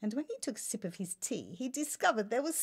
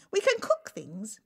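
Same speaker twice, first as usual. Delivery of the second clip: timid; 11 semitones higher than usual. Acted. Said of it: "she stuttered".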